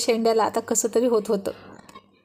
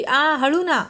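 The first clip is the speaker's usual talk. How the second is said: higher "ah" of pain, then easing off; mild pained yelp; 4 semitones higher, much slower than usual. A narrator's reading. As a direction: cry out lightly at a pinched finger. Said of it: "ती ओरडली". (दुखून हलकेच ओरडत)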